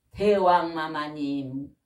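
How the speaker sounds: slow, grand mock title 대왕 마마님; mock royal address. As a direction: draw out 대왕 마마님 like a courtier, playfully. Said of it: "대왕 마마 그래지더라고".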